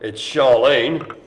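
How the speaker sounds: slow put-on accent on Charlene. Shown as a demonstration. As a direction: draw out Charlene in an affected accent. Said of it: "do this in this accent".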